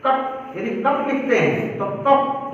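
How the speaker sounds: कप with a very short a, a bit slow; teacher models the short a in कप; short a demo. Shown as a demonstration. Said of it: "यदि मैं कहूँ कप". (कप में बहुत छोटा आ, धीरे बोलना)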